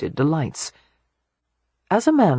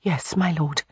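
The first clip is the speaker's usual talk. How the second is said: resigned sigh; 5 dB quieter than usual. A narrator's reading. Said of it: "Audrey suppressed a sigh".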